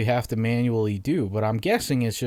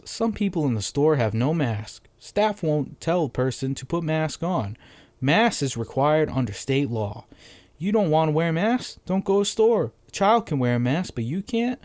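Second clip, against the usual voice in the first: reading it dumb; 5 semitones higher than usual. Shown as a demonstration. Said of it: "I read it dumb because that's how they typed it".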